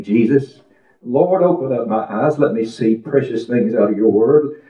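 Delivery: repeated pleading prayer, rising on each line; lightly intoned prayer for wisdom. Retold or imitated. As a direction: chant it like a plea said day after day. Retold pleading prayer, chanted.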